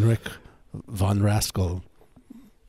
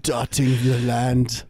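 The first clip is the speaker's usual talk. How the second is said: grand inventor voice; 4 semitones higher, slower than usual. Pretend. Joins the visionary voice.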